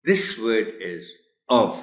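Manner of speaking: very slow, drawn-out teacher announcement; teacher slowly announcing the word. Shown as a demonstration. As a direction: draw out each word. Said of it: "teacher slowly announces the word".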